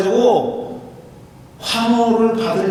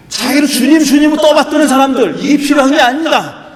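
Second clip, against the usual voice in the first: emphatic preaching; 5 semitones higher, 6 dB louder than usual. Real, not acted.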